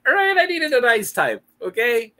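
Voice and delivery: loud, high, half-laughing protest; defensive shout. Real, not acted. Defending his Jack Frost pick to viewers, shouting.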